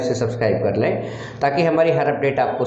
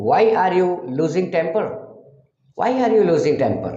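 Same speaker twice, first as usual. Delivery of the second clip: 1 slow demo; 4 semitones higher, much slower than usual. Shown as a demonstration. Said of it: "teacher demonstrates English sentence".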